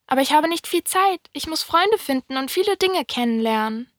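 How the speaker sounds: high-pitched little prince voice. A narrator's reading. Little prince tells the fox he lacks time, high-voiced. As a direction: explain yourself in the high voice of the prince.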